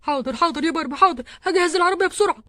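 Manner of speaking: loud, hurried reassurance; flustered urgency. Acted. Husband rushing to ready the car for labouring wife, flustered. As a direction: answer in an urgent rush.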